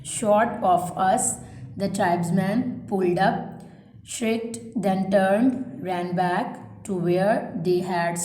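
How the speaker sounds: slow, spaced-out dictation read; measured classroom dictation pace. Shown as a demonstration. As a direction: read each phrase slowly so students can write it down. Teacher reads dictation aloud.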